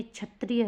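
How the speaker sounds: क्षत्रिय as "chhatriya", short first vowel; corrected pronunciation. Shown as a demonstration. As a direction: say क्षत्रिय with aspirated "chha". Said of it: "होगा".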